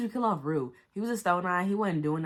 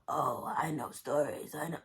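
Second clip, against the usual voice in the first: mock taxi driver. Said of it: "taxi driver talking about".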